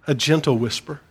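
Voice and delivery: gentle leaned on with a small rise; gentle given the weight; stress on gentle. Shown as a demonstration. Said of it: "Now notice the word gentle".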